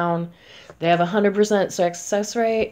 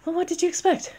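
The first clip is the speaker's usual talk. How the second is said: exasperated retort; 5 semitones higher, faster than usual. Retold or imitated. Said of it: "and it's like".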